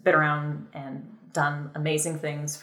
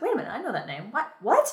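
acted surprise; 6 semitones higher, much faster than usual. Acts out recognizing the animator's name.

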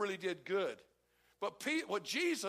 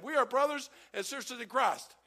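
louder retake; 3 semitones higher, 4 dB louder than usual. Shown as a demonstration. Preacher redoing the line for the congregation, stronger. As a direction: say it again with more force, louder. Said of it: "I'll do that again".

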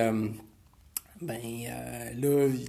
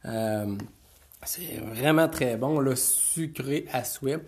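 mouth full. Real, not acted. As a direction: talk around a mouthful. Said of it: "je suis encore en train de manger".

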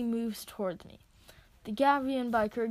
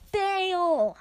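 yelled; 8 semitones higher, 8 dB louder than usual. Acted. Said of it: "I yelled".

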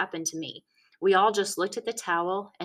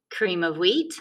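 teasing; 4 dB louder than usual. A narrator's reading. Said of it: "so I said".

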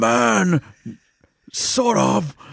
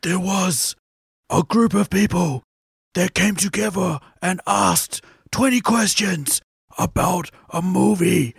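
storybook narration; 2 semitones lower, slower than usual. Acted. Storybook opening of a podcast.

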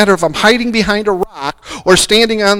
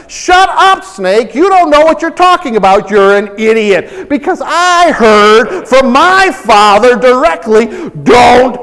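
mock rebuke; 2 semitones higher than usual. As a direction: tell the snake off hard. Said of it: "he would have said".

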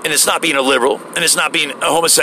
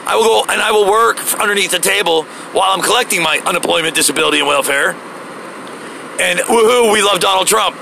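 mocking redneck voice; 8 semitones higher than usual. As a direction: sneer it like a lazy freeloader. Mocking welfare-collecting Trump supporter.

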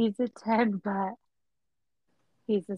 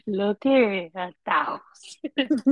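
mock haggling; 8 dB louder, much slower than usual. Mocking friend's offer.

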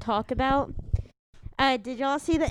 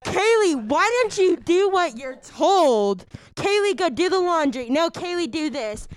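louder nagging mom voice; 3 semitones higher, 3 dB louder than usual. Acted. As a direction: nag like an annoyed mom. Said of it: "impression of my mom".

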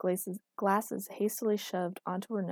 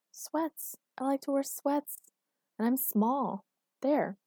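higher-pitched, curt answers; stubborn; 7 semitones higher, slower than usual. A narrator's reading. Girlfriend tells him her clothing preference, stubborn. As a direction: answer just to end the matter.

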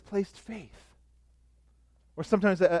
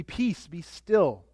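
calm command; much slower than usual. Acted. Reading Jesus calming storm.

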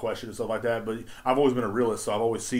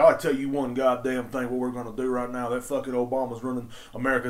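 imitated redneck rant. Redneck regular starting on Obama, lightly imitated rant. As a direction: imitate a country man launching into politics, lightly. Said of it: "that's how they all sound to me".

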